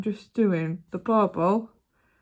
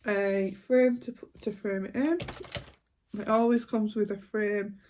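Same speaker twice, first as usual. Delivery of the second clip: talking through hiccups; hiccuping while eating. Real, not acted. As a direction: hiccups breaking the words. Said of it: "Sorry, I got hiccups".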